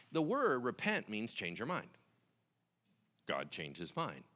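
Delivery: ordinary delivery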